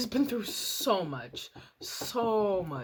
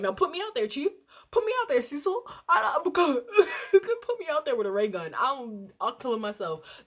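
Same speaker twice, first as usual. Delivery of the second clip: high, loud hammed-up yelling at the boss; mock furious outburst; 7 semitones higher, 4 dB louder than usual. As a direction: pretend to lose it and demand to be sent out. Imagined outburst at Cecil over pet.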